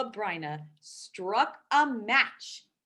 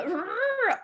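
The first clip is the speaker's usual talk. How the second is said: bear growl; 10 semitones higher, 4 dB louder than usual. Acted. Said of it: "Old Bear growled".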